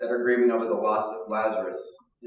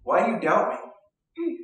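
stern rebuke; 11 semitones higher, 3 dB louder than usual. Retold or imitated. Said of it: "he doesn't say".

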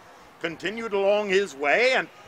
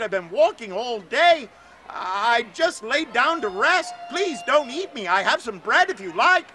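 put-on lightly higher, pleading young voice; a hint of a scared boy begging not to be eaten; frightened boy Astor; 4 semitones higher than usual. Astor begs the giant bird not to eat him, lightly frightened.

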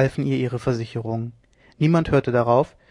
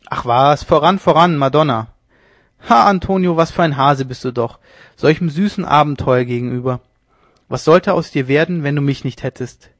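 louder, scoffing bravado; mock the timid friend loudly; 6 dB louder than usual. Leone scoffing at hesitant Antonio, loud mockery.

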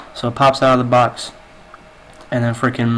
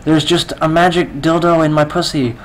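higher-pitched acted fluster; mock-flustered, pitched up; flustered protest; 5 semitones higher than usual. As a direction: play a rattled woman pleading. Flustered woman explains to cop.

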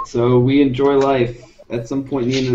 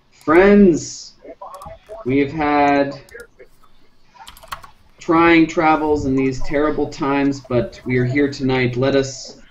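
measured orator addressing a crowd; oratory voice; slower than usual. Acted. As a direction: open grandly, with long pauses for effect. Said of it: "my good oratory voice and I say".

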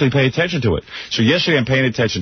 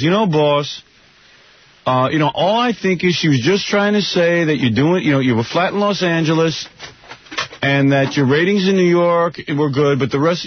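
lightly raised, hesitant Gary voice; imitating Gary; 6 semitones higher than usual. Host imitates his producer Gary, hesitant and placating. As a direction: mimic Gary's soothing hedging. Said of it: "he goes".

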